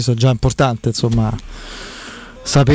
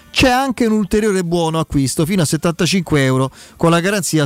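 infomercial. Acted. Host reads sponsor ad live.

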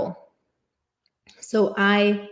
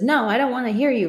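higher, quick mock refusal; acted refusal; 4 semitones higher, 3 dB louder, faster than usual. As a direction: brush them off in a higher, hurried voice. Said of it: "if the person says".

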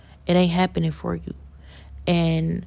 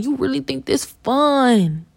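higher, slow disbelief; incredulous slow question; 7 semitones higher, slower than usual. Real, not acted. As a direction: ask it like it's absurd. Confronting the laughing people.

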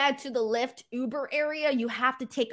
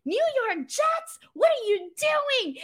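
much higher, slow mock-outraged driver voice; teasing bus driver; 3 dB louder, slower than usual. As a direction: play the driver ribbing a Jets fan, drawn out. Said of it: "he goes".

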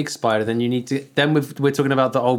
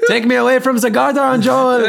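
playful plea; 11 semitones higher, 5 dB louder than usual. Real, not acted.

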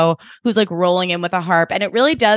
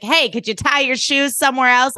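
imitated irritated snipe, pitched up; annoyed; 5 semitones higher than usual. Drella snapping at a guest in her way, annoyed. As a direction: put on a peeved harpist. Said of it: "just annoyed with everyone".

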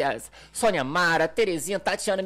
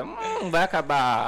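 drawn-out voicing of a pet's thought; pet's imagined reaction; much slower than usual. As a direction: say it slowly, half laughing, as the pet. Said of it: "entonação da voz, ele já fica".

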